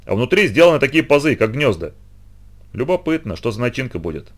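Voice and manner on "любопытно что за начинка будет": curious murmur. Acted. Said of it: "заметил кто-то из рабочих".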